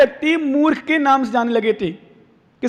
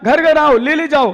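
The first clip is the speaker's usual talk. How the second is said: calling out; 3 dB louder than usual. Retold or imitated. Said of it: "वो चिल्ला रहा था".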